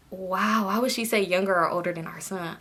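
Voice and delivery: low-volume, wounded muttering; quiet, deflated disbelief; embarrassed aside. Retold or imitated. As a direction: think it softly to yourself. Her embarrassed aside after the insult.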